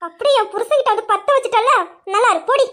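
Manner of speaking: loud bitter jab; angry accusation. Acted. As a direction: lash out in fury. Sister-in-law quarrel, angry accusation.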